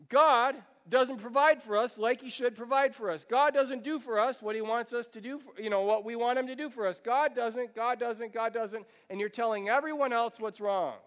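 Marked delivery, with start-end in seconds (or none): 0.1-8.8 mock grumbling about God; whiny complaint. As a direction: gripe like someone cheated. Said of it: "complaining about God is like this".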